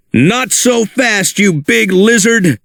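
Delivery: a touch of a heroic shout; mild shout. Acted. Buzz challenging the dinosaur, mild heroic shout. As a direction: call him out boldly but lightly. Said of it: "shouted Buzz".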